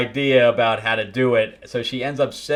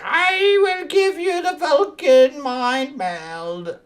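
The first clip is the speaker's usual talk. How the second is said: much higher, slow and otherworldly; mock Vulcan voice; much slower than usual. Retelling the comic, hero offers a Vulcan mind meld, high and slow. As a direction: intone it slowly, like a solemn alien.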